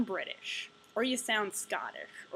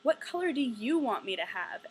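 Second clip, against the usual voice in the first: imitating mild frustration, a bit louder; retold frustration; 2 semitones higher, 5 dB louder than usual. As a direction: throw the question back, slightly exasperated. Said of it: "finally she gets frustrated".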